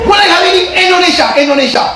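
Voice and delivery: very high, fast, loud shout; mock order. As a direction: bark the decree like a prison chief. Officer orders Indonesian only.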